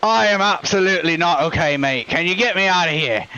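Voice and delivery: lightly put-on matey accent; rattled injured shopkeeper. Injured man begs a friend for help, put-on voice. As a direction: complain emphatically in character.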